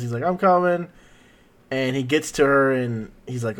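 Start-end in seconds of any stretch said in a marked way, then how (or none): 0.2-0.9 higher-pitched mild mock yell; retold yell. Goku answering a plea for help, mild mock yell. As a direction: call it out lightly, without full volume. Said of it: "So he yells".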